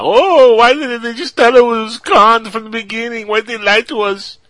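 high, loud mock-fanboy whine in an accidental Hispanic accent; a mock fanboy complaining, in an unplanned Hispanic accent. Podcast host mocking Trek fans, with an accidental Hispanic accent. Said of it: "that came out very Hispanic there".

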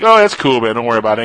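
imitating an easygoing guy. Voicing Morgan reassuring him.

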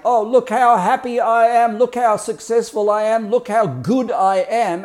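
high, loud bragging parent; loud, smug, boastful parent. Retold or imitated. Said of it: "the parents are going".

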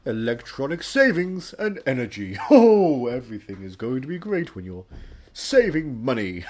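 upbeat, lightly hammed commercial read; mock ad voiceover. Lightly hammed ad read, showing off his voiceovers to his cohost. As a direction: sell it like a cheesy radio ad. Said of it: "recite some of my classic voiceovers".

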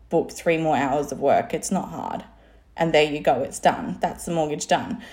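low, measured, deliberately paced husband voice; intense husband. Retold or imitated. Husband reasoning with wife about the mortgage, intense and low-key. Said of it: "stares at me really intensely".

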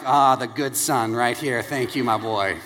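low, slow mock-fond praise; doting dad. Dad praises the son who eats, mock-doting. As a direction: savor it with exaggerated fatherly approval.

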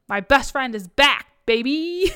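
loud, laughing cheer; mock celebration. Leader cheering his friend's return: loud laughing whoop. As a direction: crow it out like a happy leader.

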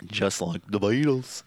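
put-on slow, drawn-out Liverpool accent; hammed-up Liverpudlian imitation; mock accent of a famous band. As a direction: echo it in exaggerated Scouse. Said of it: "in a singer's accent".

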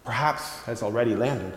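hushed secret whisper; low whisper. Acted. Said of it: "it added in a low whisper".

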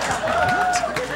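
high, incredulous retort; mock offended. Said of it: "And I'd be offended".

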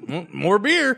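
put-on high, far-off drunk groan; drunk character voice. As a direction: voice the drunk avatar wanting beer. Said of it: "He was like, I was like".

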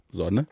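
"Sonne" with a voiceless, hissed first s; mispronounced S. Shown as a demonstration. Sceptic showing children's error, voiceless S in "Sonne". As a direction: start "Sonne" on a sharp s, questioning rise. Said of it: "wenn sie das Wort falsch aussprechen".

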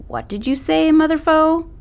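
high, loud rising fury; angry challenge. Acted. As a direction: explode at the teacher. Macy exploding at the teacher.

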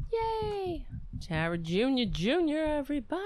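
high singsong cheer; playful pet fanfare. Real, not acted. Host presenting pet Tara Junior to everybody, playfully excited. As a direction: gleefully introduce the little star.

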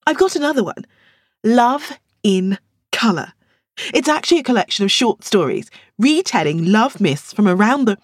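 excited book club friend; Kike's eager voice. Acted. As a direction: pitch it up, keen to share a find. Kike enthuses about a book.

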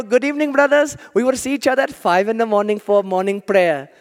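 lightly imitated South Asian accent; a hint of a South Asian accent, welcoming. Hosts telling Brother Johnny about prayer, mild South Asian accent. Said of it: "I'll drop the accent".

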